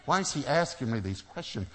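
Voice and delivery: high-pitched flustered inner voice; acted fluster, pitched well up. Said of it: "I'm flustered".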